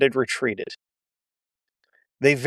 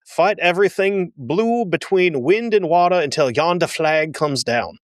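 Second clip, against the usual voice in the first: fake Southern accent. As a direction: lay on a cartoonish Southern accent, dragging the last words. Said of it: "foghorn leghorn with this".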